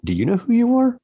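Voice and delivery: very high, mock-confidential punchline; conspiratorial mother. Mother turning the question on her daughters, mock-conspiratorial and high. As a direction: imitate mom leaning in, voice pitched right up. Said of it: "conspiratorially to make sure no one can hear".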